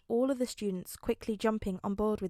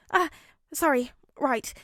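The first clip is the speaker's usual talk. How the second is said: sheepish; 5 semitones higher, 5 dB louder than usual. A narrator's reading. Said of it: "he said quickly".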